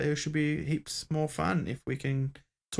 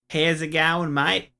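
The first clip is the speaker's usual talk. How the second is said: a light Australian greeting, a bit louder; Australian accent; 2 semitones higher, 5 dB louder, slower than usual. Shown as a demonstration. Telling listeners how to pitch the show, light Australian accent. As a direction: toss off a casual Aussie hello. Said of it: "do your best Australian accent".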